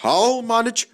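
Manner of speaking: wheezing. A narrator's reading. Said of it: "he wheezed".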